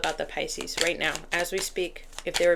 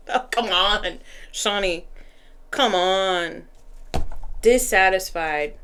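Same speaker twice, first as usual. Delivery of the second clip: playful exasperation, leaning on the words; drawn-out, put-out complaint; exasperated protest; 4 dB louder, slower than usual. Real, not acted. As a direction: protest at an unwelcome answer. Protests to the deck about card.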